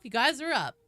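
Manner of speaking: put-on high Valley Girl voice; Valley Girl calling them up; Valley Girl accent. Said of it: "The Valley Girl voice".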